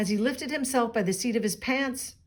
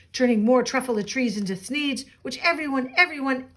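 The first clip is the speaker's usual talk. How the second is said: yelling at Lorax. Acted. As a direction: rant back at the nagging creature. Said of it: "I yelled at the Lorax".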